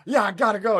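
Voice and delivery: high, loud imitation of cutting a call short; mock brusque brush-off. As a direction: cut them off loudly, hammed up. Friend cuts off prison call.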